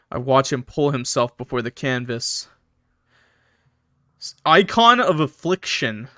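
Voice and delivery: measured, moody first-person narration; story narration. A narrator's reading. Streamer reading a horror story to chat, measured narration. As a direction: read it as a grim tale.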